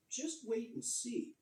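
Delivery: teasing. A narrator's reading. Thomas boasting to engines.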